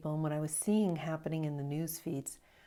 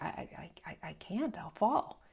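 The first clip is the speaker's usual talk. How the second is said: frightened stammer. Retold or imitated. Scared at river crossing.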